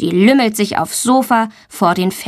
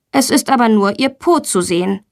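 usual speaking voice

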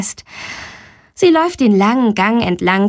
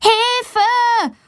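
crying for help; 14 semitones higher than usual. A narrator's reading. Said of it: "ruft Valentina so laut sie kann". (lauter Hilferuf, hohe Stimme)

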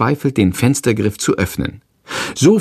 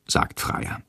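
plain reading voice

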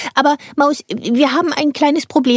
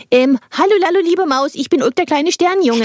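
gentle coaxing; 5 semitones higher than usual. Acted. Ulk gently calms the frightened mouse. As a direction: reassure a timid mouse. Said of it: "ich kann doch Tiere sprechen hören".

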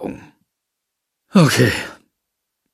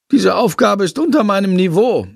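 lightly voiced bat, higher and disdainful; haughty bat voice; 8 semitones higher than usual. A narrator's reading. The bat Shandor scoffs at Lilly's sum, higher and haughty. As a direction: look down on the easy sum.

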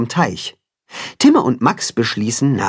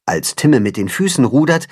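ordinary delivery

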